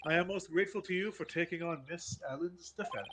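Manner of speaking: put-on polite, formal old butler. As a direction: speak like a courteous household butler. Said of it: "Your servant voice is better than mine".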